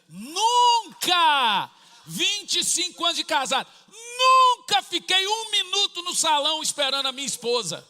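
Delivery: loud, high outburst rising above the story; bursting out in mock outrage; indignant shout. Pastor to the congregation, loudly protesting the salon wait.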